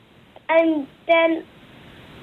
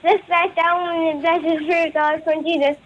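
fast prayer; much faster than usual. Shown as a demonstration. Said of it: "quickest Hail Mary in Ireland ever".

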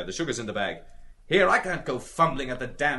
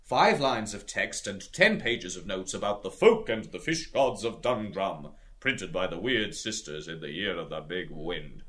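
very earnest. Acted. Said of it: "he said very earnestly".

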